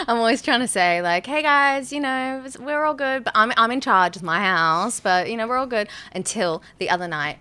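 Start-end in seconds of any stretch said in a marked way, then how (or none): 1.3-5.9 higher, friendly appeal to the room; gently negotiate with unseen housemates; placating. Acted. Homeowner making peace with the ghosts, placating. Acted address to ghosts at home.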